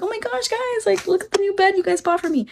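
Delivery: very high, gushing squeal of thanks; high, hammed-up delight, speeding up; pretend excitement. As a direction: show off a gift to fans, mock-thrilled. Acts out future stream thanking viewers.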